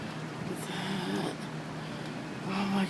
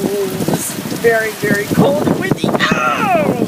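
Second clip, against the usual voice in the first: excited; 4 semitones higher than usual. Real, not acted. Pelted by cold wind.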